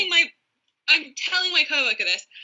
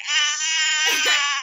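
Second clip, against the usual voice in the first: awkward cry; 2 semitones higher than usual. Retold or imitated. Acts out her awkward drawn-out cry.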